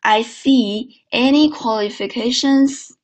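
slow, careful question; slow teacher's question read; question tune. Shown as a demonstration. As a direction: read it slowly as a yes-no question. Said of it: "一般疑问句".

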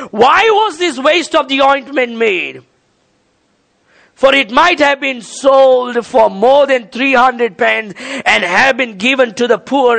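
forceful pulpit reading; emphatic scripture preaching. Real, not acted. Preacher reading of indignation at wasted ointment, emphatic preaching. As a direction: declaim the verse to the congregation.

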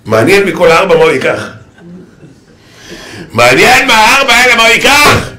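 rabbi's mock sermon climbing; rabbi scolding. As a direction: lecture the father, rising to a shout. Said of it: "אמר לו".

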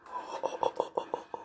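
rising loud excited cries. Real, not acted. Excited exclamations in game.

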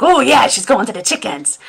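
lightly voiced excited dog; a hint of a cheerful pup; eager dog voice. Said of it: "he's like".

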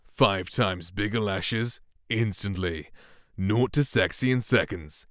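slow, polished mascara ad voice; commercial read. Shown as a demonstration. Mic test, voice actor reads a mascara ad in commercial style. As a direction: sell the mascara like a glossy TV spot. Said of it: "like a commercial read first".

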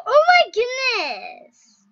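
drawn-out high loud gasp; shocked gasp. Real, not acted. Kid gasping in shock at the game. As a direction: gasp it out in disbelief.

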